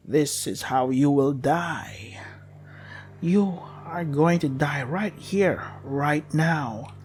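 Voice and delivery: slow, menacing, half-whispered doom; inhuman sewer voice. Acted. Monster in the sewer threatening the child, slow and whispery. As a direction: drag out each threat like something from below. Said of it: "as if it came from the depths of a sewer".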